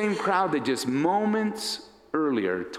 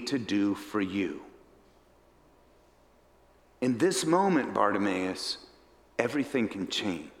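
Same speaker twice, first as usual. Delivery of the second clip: low, unhurried, tender offer; gentle, searching question; 4 semitones lower than usual. Acted. Jesus offering Bartimaeus a changed life, gently earnest. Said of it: "the translation better says it this way".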